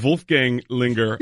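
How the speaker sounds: Wolfgang said with a committed German pronunciation; sold German pronunciation. Real, not acted. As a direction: really sell the German name in "Wolfgang". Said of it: "He sells the Wolfgang".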